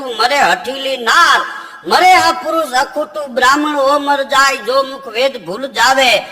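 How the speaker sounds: slow, measured chanted recital of the couplet; poem recital. Acted. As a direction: recite the old verse slowly, line by line.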